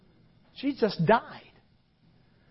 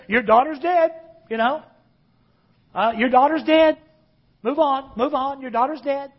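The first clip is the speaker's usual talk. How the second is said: callous; 3 semitones higher than usual. Retold or imitated. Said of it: "callously say to Jairus".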